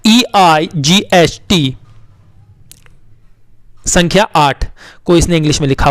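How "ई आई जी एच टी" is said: ई आई जी एच टी spelled very slowly; spelling slowly. Shown as a demonstration. Teacher spelling eight slowly for children. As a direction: space every letter out. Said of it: "आखिरी है".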